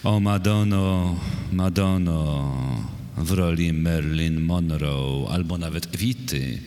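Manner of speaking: measured, solemn reading of a poem; poetry recitation. Acted. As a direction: recite verse line by line, with deliberate pauses. Poet recites own poem. (recytacja wiersza)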